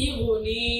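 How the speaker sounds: ইগুনি with a long, held final নি; one-alif stretch. Shown as a demonstration. Teacher repeats the word, final নি held long in ইগুনি. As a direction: draw out the end of ইগুনি. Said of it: "একালে টান দিচ্ছি কেন নুনের নিচে".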